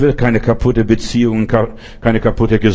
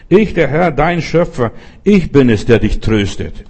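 voice of God. Acted. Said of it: "sagt hier mein Gott".

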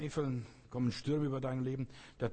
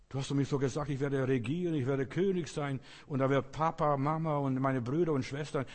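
lightly acted dreamer, louder and insistent; Josef; 2 semitones higher, 5 dB louder than usual. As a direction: remind God of his promise, voice raised a little. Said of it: "Denk an Josef, diese Geschichte". (leicht gespielt, eindringlich und lauter)

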